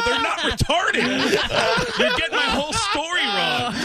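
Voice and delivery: high, frantic laughing yell; high laughing shout. Retold or imitated. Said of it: "I go".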